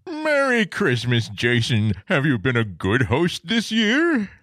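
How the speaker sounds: Santa voice. Acted. Guest plays Santa questioning host.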